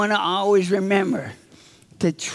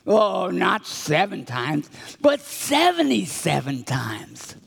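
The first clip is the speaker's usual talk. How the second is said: Jesus answering; slower than usual. Acted. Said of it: "And Jesus answered".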